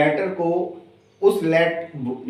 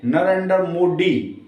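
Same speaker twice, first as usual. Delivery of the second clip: put-on slow English-accented "नरेंद्र मोदी" with hard D sounds; mock English accent, drawn out; English speakers' accent; slower than usual. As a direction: imitate English speakers saying Hindi, "Narendar Modi". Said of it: "वो किस तरीके से pronounce करते हैं".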